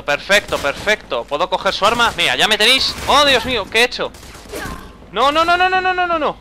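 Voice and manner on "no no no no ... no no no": high panicked string of no's; rising alarm, can't stop it. Real, not acted. Panic after a mistake in game. (pánico agudo)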